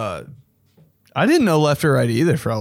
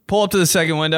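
drive thru speaker; 3 semitones higher, much faster than usual. Pretend. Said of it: "drive-thru speaker".

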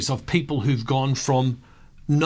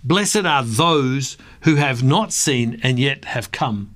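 scripture reading; 2 semitones higher than usual. Acted. Reads John twenty aloud.

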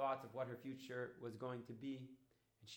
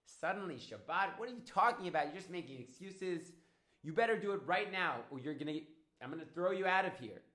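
raised, indignant acted fury; furious; 4 semitones higher, 7 dB louder than usual. Woman threatening to throw Dodi out for refusing, furious. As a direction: scold and threaten, high and loud. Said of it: "the woman was furious".

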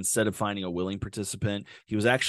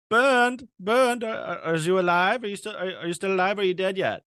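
mock check-in; 10 semitones higher than usual. Killer calling to his bleeding victim, mock cheerful. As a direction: call out through the door to the dying guy.

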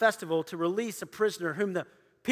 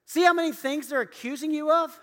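raised, insistent questioning of the prisoner; pressing Pilate; 8 semitones higher, 4 dB louder than usual. Acted. Pilate demanding an answer from the silent Jesus, pressing and raised. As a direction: push him hard for an answer.

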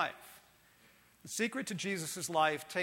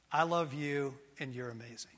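tender fatherly words; 5 semitones lower than usual. Acted. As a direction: say it gently like a loving father.

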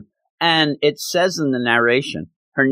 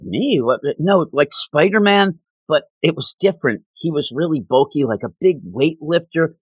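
mild retold upset; 4 semitones higher than usual. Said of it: "crying and upset".

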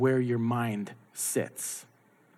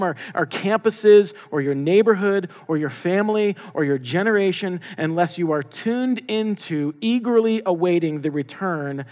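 building, louder and higher sermon delivery; impassioned preaching; 4 semitones higher, 3 dB louder than usual. Real, not acted. Preacher urging the church to await King Jesus, impassioned preaching. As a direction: drive the list home with mounting force.

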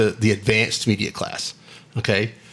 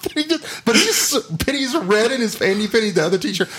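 high-pitched, giggly storytelling; laughing while talking; 12 semitones higher than usual. Real, not acted. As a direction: struggle to get the story out through laughter. Cracking up while telling the story.

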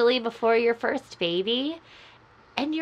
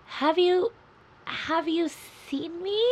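eerie lost-soul voice; calling from far away; 8 semitones higher than usual. Pretend. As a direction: ask it like a ghost searching. Lost identity skit, eerie call.

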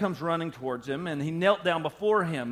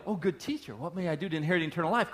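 fawning suck-up; faster than usual. Retold or imitated. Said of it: "you're trying to go".

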